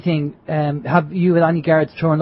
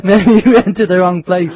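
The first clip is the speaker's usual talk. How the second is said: laughing; 5 dB louder than usual. Real, not acted. Laughing at the guard story.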